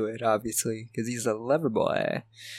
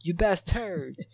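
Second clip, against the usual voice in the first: higher, slow bad French accent; mock French accent; 6 semitones higher, slower than usual. Ash if he was French, in badly faked French accent. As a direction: draw it out high in fake French. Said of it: "If he was French".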